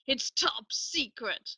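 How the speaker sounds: a slow, teasing "It's top secret"; slow mock catchphrase. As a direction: drawl it out like a new catchphrase. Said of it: "my new catchphrase now. Just say".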